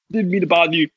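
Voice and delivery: talking through a burp. Real, not acted. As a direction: burp mid-sentence. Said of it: "Excuse me, I'm burping hard body".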